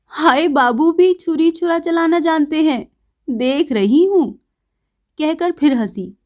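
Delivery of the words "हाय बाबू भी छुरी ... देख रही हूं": laughing. Acted. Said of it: "खिलखिलाकर हंसती हुई बोली".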